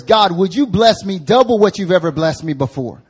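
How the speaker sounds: preacher voicing Jabez pleading for increase, loud and high; crying out. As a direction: cry out for double blessing. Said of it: "what he's crying out for is".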